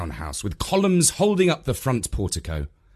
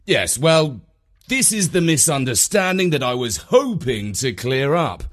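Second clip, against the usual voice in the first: lightly voiced, higher-pitched protest; defensive visitor; 6 semitones higher, 4 dB louder than usual. A narrator's reading. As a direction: defend your family, lifting the pitch. Visitor defends sister-in-law to hostess.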